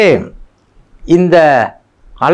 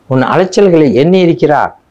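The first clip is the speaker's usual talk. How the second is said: higher and louder, leaning on எண்ணி; emphatic repeat; 4 semitones higher, 4 dB louder than usual. Shown as a demonstration. Preacher assuring the congregation, ringing out louder. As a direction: proclaim it again with force, stressing எண்ணி.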